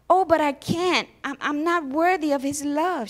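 high, loud, tearful plea; sobbing protest. A narrator's reading. Girl to her nanny, a tearful, loud, high protest. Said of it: "she sobbed".

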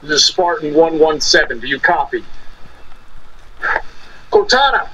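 muffled through a mask; full face dive mask. Acted. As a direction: voice trapped inside a helmet. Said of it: "Can you hear me through the mask?".

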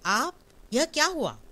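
high, loud startled cry of fear; trembling fright. Acted. Annapurna seeing wounded Sharad walk in, trembling fright. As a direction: gasp it out, shaking at the sight. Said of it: "Annapurna कांपकर".

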